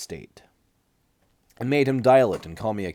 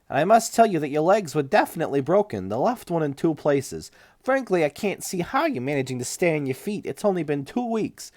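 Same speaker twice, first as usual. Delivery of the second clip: higher, louder doctor voice, lightly voiced; lightly voiced doctor objecting; stiff clinic doctor; 8 semitones higher, 5 dB louder than usual. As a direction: play the flustered doctor a notch up. Doctor figure in read story.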